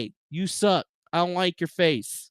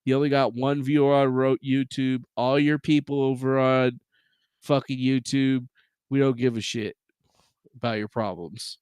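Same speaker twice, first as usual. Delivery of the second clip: a hint of lower, dismissive company voice; lightly voiced snobby platform; 5 semitones lower than usual. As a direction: sneer as the platform that doesn't care. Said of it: "They're like".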